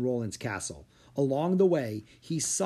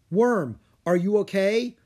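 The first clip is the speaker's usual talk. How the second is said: raised, loud check on a friend; worried call; 7 semitones higher, 7 dB louder than usual. A narrator's reading. Drake looking for his dragon after landing, calling out. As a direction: call out, high and concerned.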